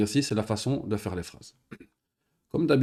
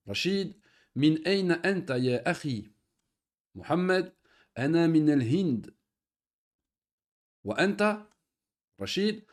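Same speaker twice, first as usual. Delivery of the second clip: dialogue reading. Acted. Teacher reading the Arabic dialogue to students, carefully. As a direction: read each line out for the learners to repeat.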